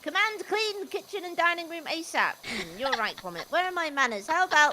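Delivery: lively character reading out an instruction; reading in his voice. Acted. Host reading out cleaning commands in character, lively put-on voice. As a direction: read it aloud as the character, pitch jumping. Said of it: "read out in his voice".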